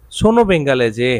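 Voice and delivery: "Sono bengalese" spoken very slowly, each syllable stretched; slow, drawn out. Shown as a demonstration. Teacher slowing down the phrase for his students, very slow. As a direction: stretch out "Sono bengalese" word by word so learners can follow. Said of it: "Italian কি হবে?".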